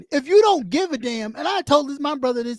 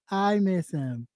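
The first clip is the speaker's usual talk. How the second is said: mock confession; 7 semitones lower, 6 dB quieter, slower than usual. Shown as a demonstration. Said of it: "Take a deep breath and say".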